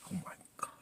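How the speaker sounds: hushed, whispered shock; stunned reaction. Retold or imitated. Viewer hearing mama can't pay for burial, stunned whisper. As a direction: whisper it in disbelief. Retells shock at mama's words.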